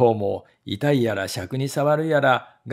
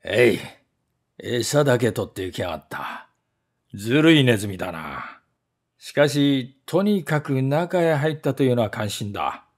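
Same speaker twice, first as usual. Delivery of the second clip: grumbling servant; 2 semitones lower than usual. Acted. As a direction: mutter it like a cheated servant. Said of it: "怒って言いました".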